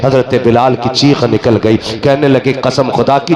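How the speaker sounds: steady, projected sermon storytelling; declamatory religious storytelling; preaching narration. Acted. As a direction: proclaim the story to the congregation without letting up.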